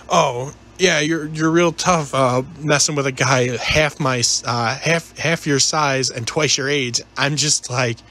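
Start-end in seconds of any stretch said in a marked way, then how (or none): 0.1-7.0 lightly voiced slow drunk taunt; mock a drunk sneering slowly; belligerent drunk. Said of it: "he ends up saying to me".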